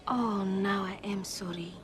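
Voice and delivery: slow whisper of sorrow; whispered sympathy. Acted. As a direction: let it fall to a hush. Hears the father was dead.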